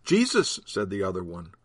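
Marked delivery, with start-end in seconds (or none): 0.0-0.6 eager and much higher. Acted. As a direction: blurt the name out eagerly. Disciple interjects the name.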